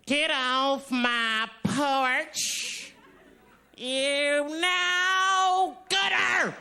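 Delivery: slow drawn-out yell at trespasser; shouting at trespasser. Shown as a demonstration. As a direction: stretch it out, then yell. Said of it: "Let me, let me try".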